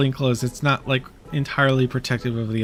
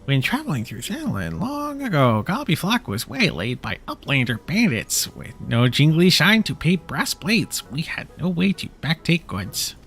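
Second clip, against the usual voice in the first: lightly high goblin storyteller; a hint of a bouncy goblin; 3 semitones higher than usual. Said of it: "speaking Gobby speak".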